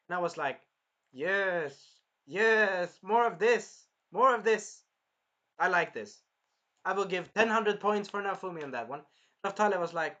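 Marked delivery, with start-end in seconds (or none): 1.1-9.0 excited fan. Retold or imitated. Fan cheering the hero on.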